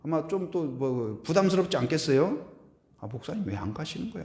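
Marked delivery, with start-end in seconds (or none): 3.0-4.2 softer, fast couple's murmur; mock whispered gripe. Host couple murmuring in the bedroom, mock hushed. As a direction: hush it fast behind the pastor's back. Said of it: "둘이 막 부부끼리 속닥속닥 하면서".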